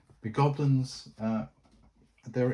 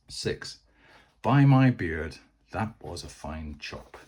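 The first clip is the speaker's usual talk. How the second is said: grumbling dwarf; 8 dB louder than usual. Acted. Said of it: "the dwarf grunts and grumbles".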